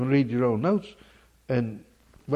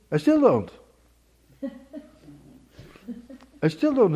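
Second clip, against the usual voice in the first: higher, louder, fast preacher's cry; impassioned pulpit delivery, pitched up and loud; fervent preaching; 7 semitones higher, 6 dB louder than usual. Acted. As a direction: preach it out with full fire. Preaching with rising fervor.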